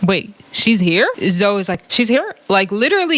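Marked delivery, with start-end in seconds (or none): 0.0-1.1 slow, questioning disbelief; drawn-out mock surprise; surprised host. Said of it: "She's like". 1.9-2.4 higher-pitched questioning echo; mock copycat surprise; parroting echo. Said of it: "Zoe is a parrot".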